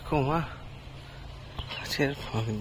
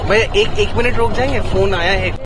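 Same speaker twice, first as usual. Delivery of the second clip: raised voice to the driver, asking him to wait; calling out; 6 semitones higher, 8 dB louder than usual. Real, not acted. Tourist calls loudly to the driver to wait for a phone call.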